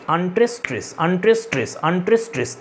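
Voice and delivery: "আনট্রেস, স্ট্রেস" as a recited beat, each pair falling at the end; iambic rhythm demo. Shown as a demonstration. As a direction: chant "আনট্রেস, স্ট্রেস" in even, repeated pairs. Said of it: "এইভাবে যায় iambic". ("আনট্রেস, স্ট্রেস" iambic ছন্দে জোড়ায় জোড়ায় বলা)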